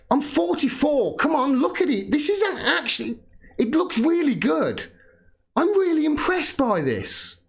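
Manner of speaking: mock viewer voice. Mocking viewers' comments, high voice.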